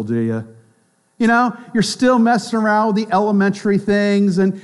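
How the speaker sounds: mock pity, talking down; patronizing. Strong believer mocking the weak, patronizing. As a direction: pat them on the head with your voice. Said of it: "with a very patronizing attitude and say".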